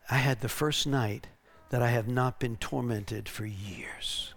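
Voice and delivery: soft and low, slowing into a whisper; hushed testimony. Retold or imitated. Freed woman telling the preacher of her night, hushed. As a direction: let it sink to a slow whisper.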